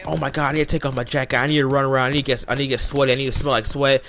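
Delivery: fast, mildly panicked rush of words; lightly acted frantic babble; retold freak-out. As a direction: replay a panic, words tumbling out quickly. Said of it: "And so I'm freaking out".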